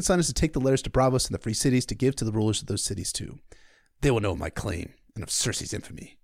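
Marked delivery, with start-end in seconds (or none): 4.0-6.2 a hint of a stern king, jaw clenched; lightly voiced grim king; Stannis voice. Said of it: "I always try to clench my jaw when I do the Stannis lines".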